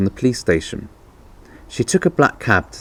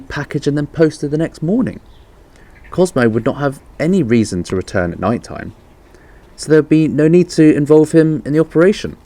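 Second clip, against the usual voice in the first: higher, eager aunt building her case; Aunt Lily, rising; 8 semitones higher than usual. A narrator's reading. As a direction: climb higher as the idea lands. Aunt Lily explains her theory.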